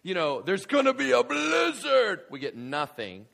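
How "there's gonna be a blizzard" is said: mock weatherman. Mocking the weatherman's forecast.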